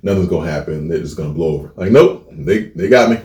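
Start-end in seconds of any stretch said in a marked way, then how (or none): 0.0-1.7 softer, fading inner thoughts. Retold or imitated. Student telling himself the substitute will forget, softly. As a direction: think it to yourself, trailing off. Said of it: "I'm sitting there thinking".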